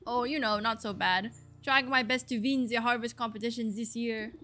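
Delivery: put-on farmer with a loose French accent; attempted French accent. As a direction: welcome them in a rough French accent. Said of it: "is this a French accent?".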